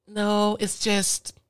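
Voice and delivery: high, slow, drawn-out agent voice; put-on agent voice. Phone agent hesitates before transferring caller, high put-on voice.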